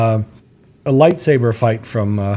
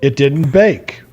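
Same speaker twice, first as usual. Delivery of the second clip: mock proud reveal; 4 semitones higher, 3 dB louder, slower than usual. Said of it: "And he goes".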